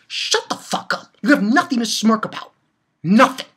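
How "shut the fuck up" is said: a slow, breathy whisper of contempt; whispered insult. Real, not acted. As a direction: hiss shut the fuck up under your breath. Ranting at character Cohen.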